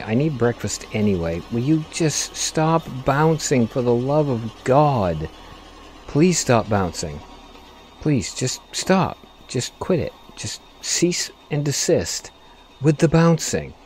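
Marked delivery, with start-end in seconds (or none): 1.5-13.0 slow, drawn-out weary begging; exasperated pleading. Real, not acted. Driver begging his bouncing truck to stop, slow and exasperated.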